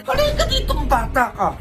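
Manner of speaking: mother calling her son over, sharp and high; angry call. Acted. Mother scolding her son, calling him over sharply.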